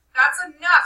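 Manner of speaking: loud, sharp rebuke; sharp command. Acted. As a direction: Ralph cuts Piggy off. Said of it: "said Ralph sharply".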